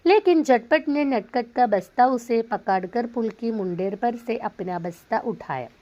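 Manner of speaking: slow, deliberate read-aloud; teacher reading a story to students. Acted. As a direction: read each word out carefully for the class. Reads Hindi story aloud.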